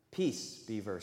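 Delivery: deep rumbling lion growl; low growl. Acted. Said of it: "said Aslan with a very low growl".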